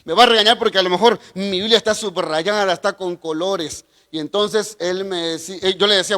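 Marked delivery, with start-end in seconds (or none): 0.0-3.8 lightly acted worry, hushed and hurried; a little scared. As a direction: mutter it like a nervous kid expecting a scolding. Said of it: "un poquito asustado dije".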